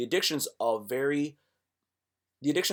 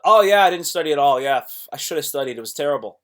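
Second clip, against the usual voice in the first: breezy shrug; 8 dB louder, faster than usual. Retold or imitated. Mock casual shrug quote.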